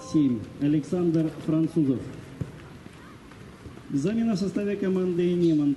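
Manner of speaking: echoing PA goal announcement; formal call over stadium speakers; echoing stadium announcer. Acted. (объявление диктора стадиона)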